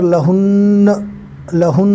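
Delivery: लहुन with the nun held and doubled. Shown as a demonstration. Teacher demonstrating the shadda in लहुन. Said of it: "नून के पर तशदीद है".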